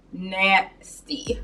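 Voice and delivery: disgusted whisper. Real, not acted. Disgusted echo of "that is nasty.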